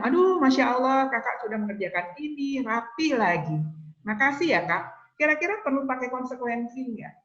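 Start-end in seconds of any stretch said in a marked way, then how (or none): 0.0-5.1 gushing, a little higher, bursting out at the start; delighted praise. Retold or imitated. A mother thanking her child for tidying up, delighted praise. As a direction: heap praise on the child as a proud parent.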